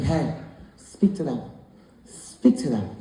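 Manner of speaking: imitating a patient, soothing wife; gentle parent. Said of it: "my wife's a gentle parent".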